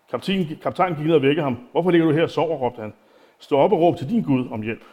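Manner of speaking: unhurried reading of the text; Bible reading. Acted. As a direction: read the passage out to the congregation. Continues reading the Bible passage.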